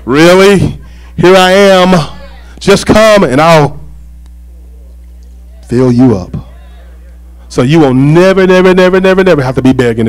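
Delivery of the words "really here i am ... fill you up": patient, slow appeal, lightly voiced; God. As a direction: answer the moper with an unhurried invitation. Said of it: "And God is saying".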